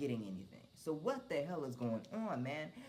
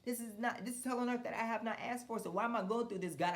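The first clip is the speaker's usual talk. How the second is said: higher, exasperated outburst; frustrated complaint to God; 8 semitones higher than usual. Retold or imitated. Venting at God about unasked-for hell, exasperated and high. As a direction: vent the complaint upward, pitched high. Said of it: "I'm sitting up here like".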